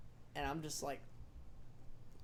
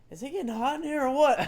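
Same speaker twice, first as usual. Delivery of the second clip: woozy quip; 9 semitones higher, 7 dB louder than usual. Retold or imitated. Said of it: "out of nowhere, I'm like".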